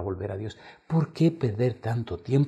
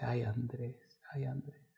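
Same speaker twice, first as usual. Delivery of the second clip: sighing reproach; 3 semitones higher, 13 dB quieter, slower than usual. Retold or imitated. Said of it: "he oído la frase".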